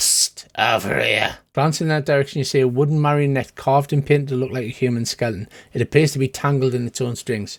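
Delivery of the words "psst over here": rough, rasping voice. Voicing a tangled marionette calling the players over: raspy voice. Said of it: "a raspy voice says".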